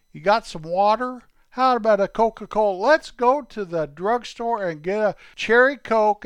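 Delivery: put-on high, eager boyish voices of two kids. Two boy buddies chatting about toothpicks, high and eager. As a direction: play two excited young friends.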